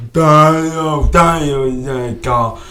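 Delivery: slurred imitation of a deaf woman; mock deaf voice, consonants lost; imitated deaf speech. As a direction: blur the words like someone who can't hear them. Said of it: "Say it just like she said it".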